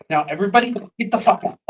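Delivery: loud fast command; shouted order. Acted. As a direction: yell it out. GM voicing order.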